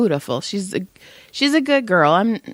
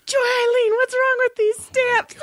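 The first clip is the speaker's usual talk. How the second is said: quoting grandpa laughing. Retold or imitated. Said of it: "He's all".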